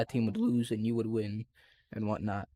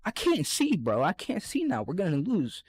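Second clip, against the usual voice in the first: higher whiny complaint, settling toward the end; mock whine; 4 semitones higher than usual. Himself whining to teammates after his glasses break, higher and whiny. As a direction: whine helplessly about your glasses.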